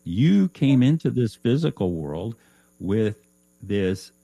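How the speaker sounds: high, loud mock scolding that fades toward the end; scolding spirit guide. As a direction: play a guide giving a wake-up smack. Guide scolds Loretta in story.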